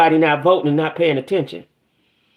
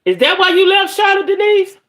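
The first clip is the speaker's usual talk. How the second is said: playful teasing question; 14 semitones higher, 4 dB louder than usual. Real, not acted. Teasing a viewer by name.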